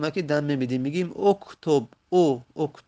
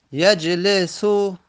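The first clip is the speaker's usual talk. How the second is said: یجلسو drawn out slowly, louder and higher; slow model reading; 4 semitones higher, 5 dB louder, much slower than usual. Shown as a demonstration. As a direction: announce یجلسو slowly to the class. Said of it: "لام حرف سوم کسره داره". (یجلسو را آهسته و رسا بخوان)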